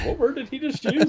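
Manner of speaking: a confused squeak at a strange word; puzzled inner voice. Retold or imitated. Rereading the word, he pitches up in mock bafflement. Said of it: "because I was like".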